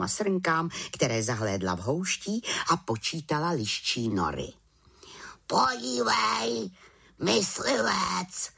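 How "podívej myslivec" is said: high, slow, breathy raven call; raven's croak. A narrator's reading. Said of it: "zakrákal po chvíli Havran". (vysoké pomalé krákavé šeptání havrana)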